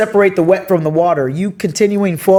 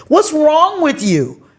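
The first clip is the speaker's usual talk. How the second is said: higher and slow, imitating mom's cold reply; mock mean mom; 9 semitones higher, slower than usual. Daughter mimicking her mom's harsh reply, higher and slow. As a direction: drag it out as the unsympathetic mom. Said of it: "that's not what you're supposed to say".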